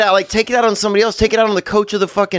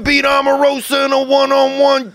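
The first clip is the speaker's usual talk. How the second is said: higher, mock insult at the president; mock rant; 6 semitones higher than usual. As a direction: play the ranting actor half-seriously. S1 joins the rant.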